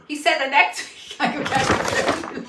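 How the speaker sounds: breaking into laughter mid-line; laughing. Real, not acted. Reader set off by the partner, laughing through the line. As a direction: try to read on while cracking up. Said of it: "You're making me laugh".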